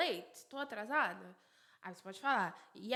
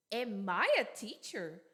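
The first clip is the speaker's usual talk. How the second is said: "am I a teacher" with a questioning lift; rising question intonation; 3 dB louder than usual. Shown as a demonstration. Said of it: "sobe a entonação".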